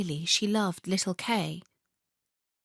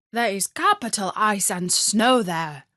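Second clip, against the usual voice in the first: reindeer voice; 4 dB louder than usual. Acted. Reindeer speaks.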